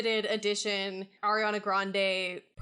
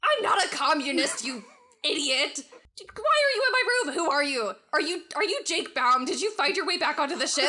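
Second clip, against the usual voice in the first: angry, shrill; 4 semitones higher, 3 dB louder, faster than usual. Acted. Shar angrily confronts the knight.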